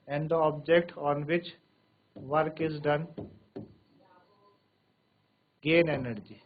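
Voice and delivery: very slow, each phrase spaced out; slow dictation. Shown as a demonstration. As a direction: dictate slowly for notes. Dictation continues. (धीरे-धीरे लिखवाना)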